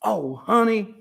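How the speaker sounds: fond playful oh honey; light and fond. Shown as a demonstration. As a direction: coo it with amused affection. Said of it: "to add a little levity".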